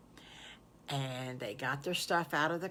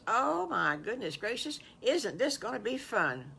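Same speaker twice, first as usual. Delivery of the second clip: delighted wolf; 5 semitones higher than usual. Acted.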